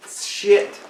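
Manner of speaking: whisper. Pretend. Whispered curse.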